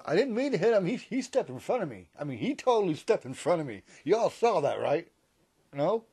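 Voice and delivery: loud, high, rushed pleading that it wasn't your fault; panicked yelling. Retold or imitated. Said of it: "do you start yelling".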